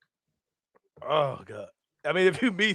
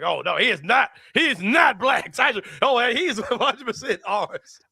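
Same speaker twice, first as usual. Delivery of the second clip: a hint of white sports fans, pitched up; playful imitation of white fans claiming him; mock white fans; 6 semitones higher than usual. Fan mocking white fans claiming Ty, lightly voiced. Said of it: "I didn't hear white people like".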